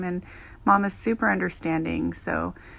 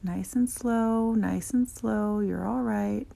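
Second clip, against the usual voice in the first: soothing the dog; 4 semitones higher, slower than usual. Acted. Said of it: "I say".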